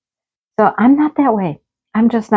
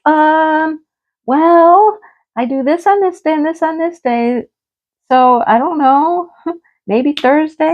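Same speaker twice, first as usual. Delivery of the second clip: flustered answer; 8 semitones higher, slower than usual. Retold or imitated. Retells her flustered reply.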